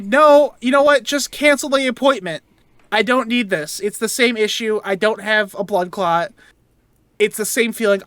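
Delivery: curt and fed up, telling them to cancel; mildly annoyed caller voice. Retold or imitated. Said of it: "very annoyed at my voice".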